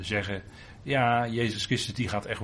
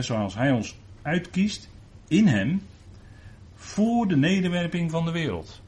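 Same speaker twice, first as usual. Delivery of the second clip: slow, lifted and louder, every word weighed; slow solemn scripture reading; 7 semitones higher, 4 dB louder than usual. Acted. Preacher reading Ephesians to the congregation, slow and solemn. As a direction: read it out as a solemn proclamation.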